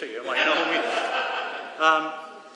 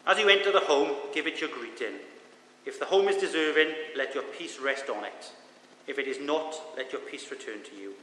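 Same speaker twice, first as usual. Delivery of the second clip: scripture reading. Acted. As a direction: read the passage with weight. Reads scripture aloud.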